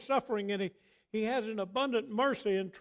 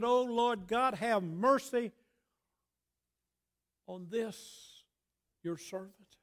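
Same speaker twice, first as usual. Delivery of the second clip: raised, pleading prayer; crying out to God; 3 semitones higher than usual. Acted. Preacher voicing a believer's plea for mercy, crying out. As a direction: call on God for mercy, pitch lifted. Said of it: "Have you cried out to God lately and said".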